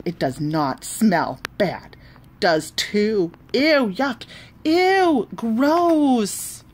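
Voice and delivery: rising high bratty back-and-forth; childish quarrel. Acted. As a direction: taunt like a kid in a fight. Girls' playground quarrel acted.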